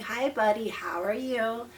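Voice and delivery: calm greeting. Shown as a demonstration. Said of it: "a calm, slow speech that doesn't have rises and falls".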